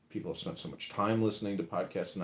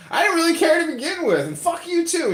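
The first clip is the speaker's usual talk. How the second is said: much higher, louder, fast put-on sneer; mock dismissive; 10 dB louder than usual. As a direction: toss it off with contempt. Voicing ungrateful person.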